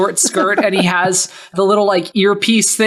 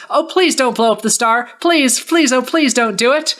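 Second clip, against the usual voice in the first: higher, hammed-up begging please; mock pleading; 4 semitones higher than usual. Bugs fakes begging Soren to spare the star, hammed-up pleading. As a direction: beg theatrically, tongue in cheek.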